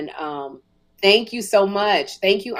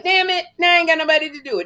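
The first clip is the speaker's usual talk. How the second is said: retold frustration; 9 semitones higher, 4 dB louder, much faster than usual. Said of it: "So I'm like".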